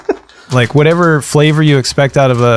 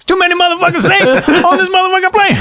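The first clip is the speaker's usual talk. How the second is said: high, laughing Shaq voice; Shaq impression. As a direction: put on a goofy Shaq. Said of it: "That's Shaq".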